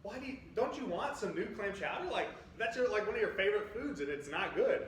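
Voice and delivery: fiancée quoted. Retold or imitated. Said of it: "she looked at me, she's like".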